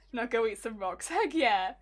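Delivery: gruff goblin voice. Pretend. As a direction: snarl it like a goblin. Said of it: "Now you sound like Waluigi".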